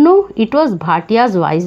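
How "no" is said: cracked voice. Retold or imitated. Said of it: "the cracked".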